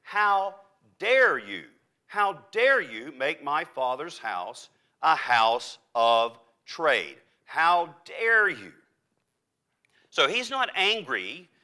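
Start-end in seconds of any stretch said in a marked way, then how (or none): 0.0-8.7 slow, weighty rebuke as Jesus; righteous indignation. Acted. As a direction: draw out an affronted reproach, word by word. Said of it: "What Jesus is incensed about".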